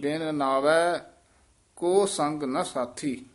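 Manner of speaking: ਬਿਨ ਨਾਵੈ, then a halt, then ਕੋ ਸੰਗ ਨਾ ਸਾਥੀ slowly; stop after ਨਾਵੈ. Shown as a demonstration. Teacher showing the student where to halt, stopping after ਨਾਵੈ. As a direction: break the line after ਨਾਵੈ. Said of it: "ਨਾਵੈ ਤੇ ਠਮਕ ਲੱਗ ਜਾਏਗੀ".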